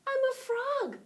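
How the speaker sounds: high, loud proud announcement; excited high frog voice; triumphant. A narrator's reading. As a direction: show off the new legs. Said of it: "he said triumphantly".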